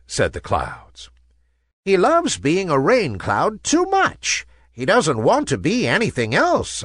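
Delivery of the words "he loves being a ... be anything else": lightly voiced old cloud, pitched up; a hint of an elderly cloud, higher; wise old cloud. A narrator's reading. Old cloud explaining Nimbus to the Sun, lightly aged voice. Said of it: "said the wise old cloud".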